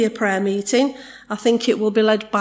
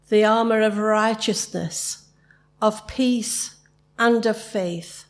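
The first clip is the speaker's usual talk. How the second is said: prayer. Acted. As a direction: pray it out steadily to the Lord.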